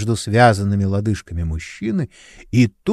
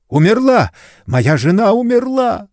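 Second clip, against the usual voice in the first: despairing cry; 11 semitones higher, 4 dB louder than usual. A narrator's reading. Husband sees wife dead.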